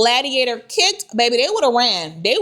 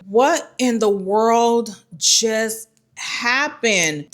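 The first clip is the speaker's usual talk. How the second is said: stunned disbelief; much slower than usual. Retold or imitated. Acts out stunned reaction to kick.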